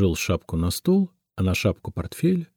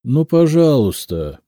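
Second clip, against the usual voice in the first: slow, high and loud plea; a touch of hoarseness in a drawn-out appeal; hoarse grumble; 6 semitones higher, 5 dB louder than usual. A narrator's reading. Cashier giving in to the crowd, hoarse grumble. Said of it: "сипло пробормотал кассир".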